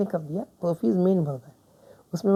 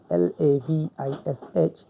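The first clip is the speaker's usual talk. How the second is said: spelling out; 3 semitones lower, slower than usual. Shown as a demonstration. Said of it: "लैविशली".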